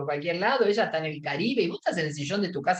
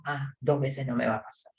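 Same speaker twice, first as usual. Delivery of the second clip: grudging self-talk; 5 semitones lower than usual. Retold or imitated. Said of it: "lo que llamamos autodiálogo".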